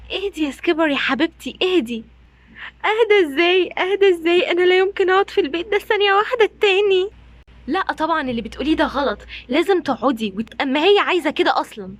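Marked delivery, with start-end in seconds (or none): 2.9-7.1 louder, higher indignant protest; angry refusal. Acted. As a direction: refuse to calm down, heated. Refusing to calm down. (رفض غاضب بصوت عالي)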